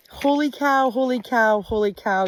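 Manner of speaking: thrilled, calling out; bursting with excitement; excited. Real, not acted. Reaching state line.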